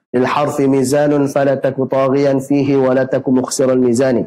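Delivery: chanted Arabic verse, measured; verse recitation. Acted. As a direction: recite the line like tajwid poetry.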